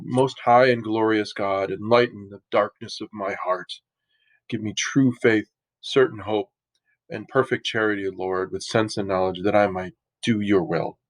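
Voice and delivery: dejected prayer. Retold or imitated. Francis praying in the ruined chapel, mildly dejected. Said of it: "kind of a dejected prayer".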